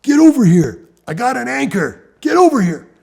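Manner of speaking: urgent yell to a distant friend. Retold or imitated. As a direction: call out to him at full voice. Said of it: "And I yell".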